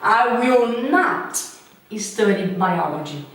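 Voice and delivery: very slow, each word laid out; slow careful negation. Shown as a demonstration. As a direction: spell the negative out slowly. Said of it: "e se eu falo". (frase negativa bem devagar)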